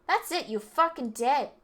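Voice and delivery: loud, furious threat; furious shout. Acted. Delinquent about to attack the rich kid, furious shout. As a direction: lose it completely.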